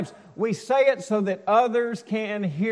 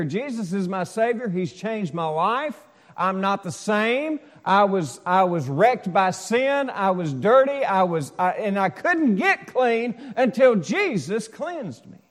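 emphatic, louder testimony with drawn-out key words; 4 dB louder than usual. Acted. Preacher voicing a believer proclaiming his faith, loud. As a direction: proclaim it so everyone hears. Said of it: "don't mind sharing their faith get loud about it".

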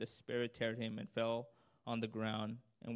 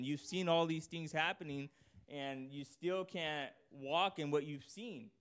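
Lord rebuking; 5 semitones higher than usual. Retold or imitated. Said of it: "the tone of the Lord saying".

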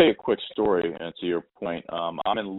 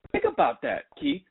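high, emphatic mom voice; imitating the mom; 10 semitones higher than usual. The mom tells Keith to think about it, high and emphatic. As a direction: drive the point home as the mom. Mom's point, raised voice.

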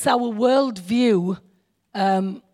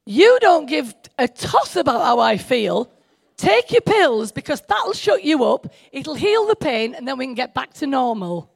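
twist his words into a cold brush-off; mocking paraphrase; 2 semitones higher than usual. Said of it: "I see it as".

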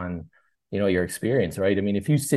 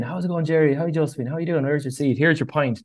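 friendly bartender hailing regulars, pitched higher; cheery bartender greeting; 6 semitones higher than usual. Acted. Bartender greets returning couple by name, bright and higher-pitched. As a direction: welcome the regulars back like old friends.

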